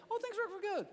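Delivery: mock the cheerful cliché; glib platitude. Someone reciting a verse at a hurting person, singsong. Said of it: "I don't wanna hear someone say".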